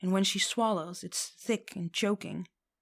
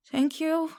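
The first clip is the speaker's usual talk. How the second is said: much higher and louder flustered squeak; 10 semitones higher, 5 dB louder than usual. A narrator's reading. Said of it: "she squeaks again".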